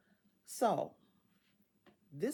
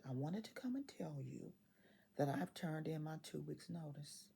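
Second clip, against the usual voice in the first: hushed, softer confiding whisper; whispered secret; 8 dB quieter than usual. Retold or imitated. Manager confides to Cheryl she quit, whispering softly. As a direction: lean in and whisper the news.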